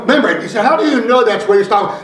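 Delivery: measured preacher cadence with weighty stresses; emphatic preaching. Real, not acted. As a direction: drive each phrase home to the congregation. Preaches to the congregation.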